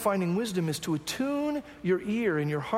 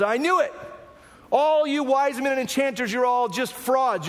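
king's outburst; 4 semitones higher than usual. Retold or imitated. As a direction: accuse them like a furious king. King voiced in a Bible story.

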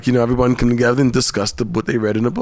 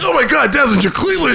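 high mock voice; 10 semitones higher than usual. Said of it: "It's like".

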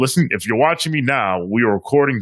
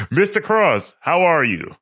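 much higher, big welcoming hello; excited greeting; 6 semitones higher than usual. Shown as a demonstration. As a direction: greet him like a showman. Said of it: "M-, let's try this again".

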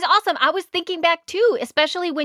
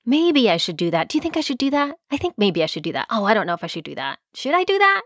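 wishy-washy dithering. Retold or imitated. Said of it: "where you're like".

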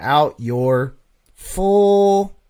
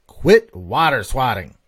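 slow, louder blunt read of the comment; 6 dB louder, slower than usual. Retold or imitated. Podcaster reads out a listener's blunt comment, slow and emphatic. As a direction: stamp each word of "Quit water swatting." flatly and firmly. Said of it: "And he says".

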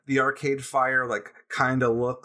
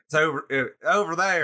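put-on tentative, higher-pitched stab at a Southern accent; attempted Southern accent; 3 semitones higher than usual. Drummer imitating the venue owner, half-hearted Southern accent. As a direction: try a Southern accent and fumble it. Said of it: "I think he was Southern".

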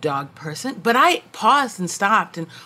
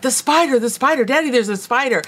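mock squealing child; 5 semitones higher than usual. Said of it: "his daughter came squealing into the room".

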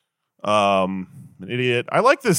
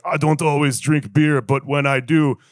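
Dos Equis guy rewrite. Retold or imitated. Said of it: "Next Dos Equis movie's like".

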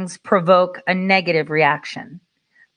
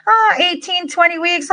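imitating the clerk; 10 semitones higher than usual. Furniture clerk quoting delivery time.

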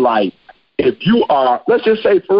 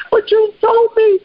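a hint of a betrayed little turtle, high and slow; dying turtle; slower than usual. Dying baby turtle to the scorpion, high slow hurt plea. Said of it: "baby Turtle was like".

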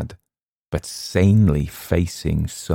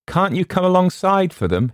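high, raised question with rising end; higher call across the water; 13 semitones higher, 4 dB louder than usual. A narrator's reading. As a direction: hail the boat with an offer. Sailor calls across water to boat.

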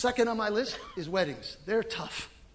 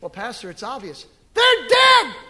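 congregant's answer; 10 dB louder than usual. Retold or imitated.

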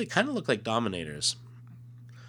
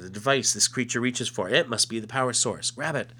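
alien voice; 4 semitones higher, 4 dB louder than usual. Acted. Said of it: "And he says".

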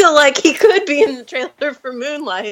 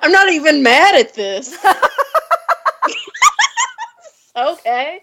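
laughing mock convinced viewer. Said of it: "answering Matt Damon's plug".

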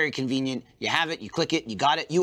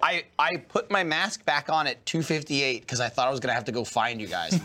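ordinary delivery

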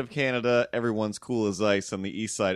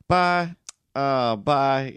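raised, loud Cape Breton "b'y"; Cape Breton accent; 3 semitones higher, 4 dB louder, much slower than usual. Shown as a demonstration. Comic searching for the voice, Cape Breton accent. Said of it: "what's my Cape Breton accent?".

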